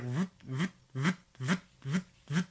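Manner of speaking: repetitive mechanical "voot" noises; robotic motion noise. Retold or imitated. Host mimicking an animated pop-up ad, robotic noises. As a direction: imitate a looping animation in short, even puffs. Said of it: "robotically rubbing her tits".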